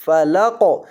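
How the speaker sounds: "فلا قو" with an echoing bounce on the qaf; bounced qaf. Shown as a demonstration. Teacher reminding students to shake the qaf, "قو" bounced. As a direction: bounce the "قو" after a short "لا". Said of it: "اور قاف کو ہلانا ہے".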